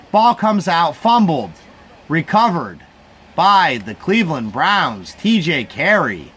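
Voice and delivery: unhurried homemade sportscaster call; mock play-by-play. Streamer calling the fumble for his viewers, mock announcer style.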